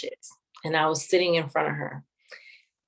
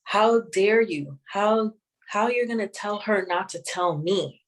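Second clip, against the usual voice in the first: mildly voicing mom scolding grandmother; upset reproach; 4 semitones higher than usual. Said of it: "she was upset at my grandmother".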